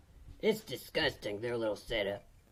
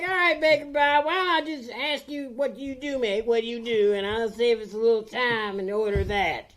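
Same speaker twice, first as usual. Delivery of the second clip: exasperated; 7 semitones higher, 6 dB louder than usual. Acted. Exasperated customer in comic yarn.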